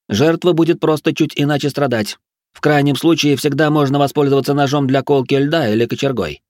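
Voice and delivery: high, manic lecturing; unhinged prim instructor; strange, squealy voice. A narrator's reading. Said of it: "Голос Ричарда стал очень странным, выше обычного и с визгливыми нотками".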